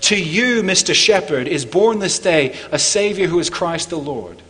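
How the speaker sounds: angel's announcement. Retold or imitated. Angel proclaiming the birth to the shepherd, herald-like. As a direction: announce it to the shepherd with bright ceremony. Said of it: "Think of what the angel said".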